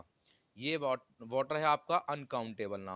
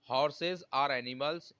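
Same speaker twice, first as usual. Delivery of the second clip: "Horses are animals" read word by word; correct example, dictated slowly; much slower than usual. Shown as a demonstration. Teacher dictates correct sentence to students, very slow. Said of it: "ये आपका बिल्कुल सही है".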